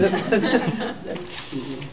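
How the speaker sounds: a short laugh at her own clumsy imitation; embarrassed laugh. Real, not acted.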